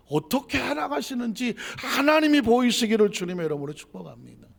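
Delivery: loud, high preaching at full force; fervent blessing. Real, not acted. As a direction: proclaim the blessing over the congregation.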